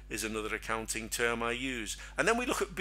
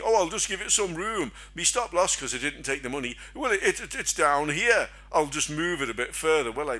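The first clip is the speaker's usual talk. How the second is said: higher, put-on voice of a dithering trader; mock hapless trader; 3 semitones higher, 3 dB louder than usual. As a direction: ham up a trader fudging his stop. Mock trader moving his stop.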